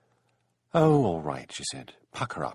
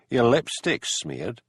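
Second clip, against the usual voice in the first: slow and pointed; 3 semitones higher, 3 dB louder, much slower than usual. Acted. Hamish pointedly noting the kiss.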